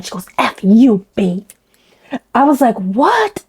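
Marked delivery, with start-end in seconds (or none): 0.4-1.5 mock man voice. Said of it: "a totally different voice like a man". 2.8-3.4 mock yell. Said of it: "and yelled at her".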